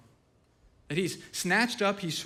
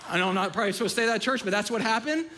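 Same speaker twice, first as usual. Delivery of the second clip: laughing; faster than usual. Real, not acted. Laughing at his own story.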